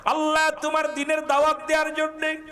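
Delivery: high, melodic protest to God; anguished plea. Acted. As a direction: cry out the hurt in a preacher's chant. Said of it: "নবীজি কান্দার বলে". (চড়া সুরে আকুল ফরিয়াদ)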